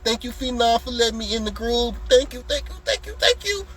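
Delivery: hammed-up grateful client, rising; mock gushing thanks.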